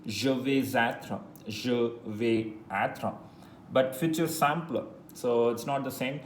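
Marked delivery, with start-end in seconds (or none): 0.0-1.2 slow example. Shown as a demonstration. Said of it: "For example". 1.5-3.1 even slower, stretched example; slow, drawn-out repeat. Shown as a demonstration. Teacher repeating an example more slowly. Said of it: "For example".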